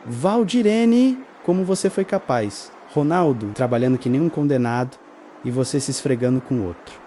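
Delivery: the aunt exploding at her; aunt's outburst. Acted. (tia furiosa, voz aguda no nome)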